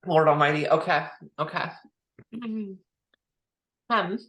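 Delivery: normal talking voice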